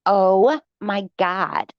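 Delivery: very slow, drawn-out mock gasp; dramatic mock. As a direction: ham up her drama, stretching every word. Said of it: "She is so dramatic".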